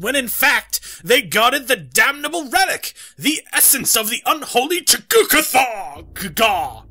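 theatrical diary narration; dramatic reading. Acted. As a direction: read it like a gothic tale.

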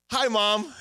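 high, bright, happy hello; cheerful greeting. Pretend. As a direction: sing out a happy hi to mom. Acting a cheerful call home.

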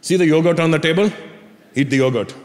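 imitated Indian dad giving an order; lightly voiced Indian-accented dad; dad's Indian accent. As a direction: instruct in an Indian father's accent. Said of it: "My dad goes".

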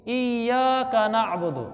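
slow, careful Arabic recitation; teaching recitation. Shown as a demonstration. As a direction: hold the doubled y and long vowels. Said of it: "आगे सूरह फातिहा है". (ठहर कर तिलावत)

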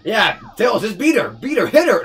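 high, loud cheering that climbs; mock-frenzied shouting at a game fight; hammed-up egging on. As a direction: goad Tails on in rising yells.

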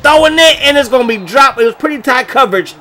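high burst that drops off; rising then letdown; excited call. Real, not acted. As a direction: call the throw then deflate. Pass in the air, dropped.

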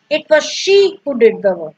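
"she" punched out above the other words; stress on she. Shown as a demonstration. Teacher giving another example of emphasis, stress on "she". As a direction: lean on "she", then let it fall. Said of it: "specifically laying emphasis on this".

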